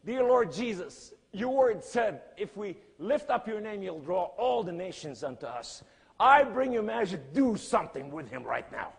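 loud, high-pitched prayer with surging bursts; crying out. Retold or imitated. Preacher retells praying over Majid, crying out. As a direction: plead urgently to heaven at full voice. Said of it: "I started crying out to the Lord".

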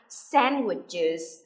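"sandwiches" slowly, with an extra -iz syllable; correct plural. Shown as a demonstration. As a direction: sound out the -es in "sandwiches". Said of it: "để chúng ta đọc được là".

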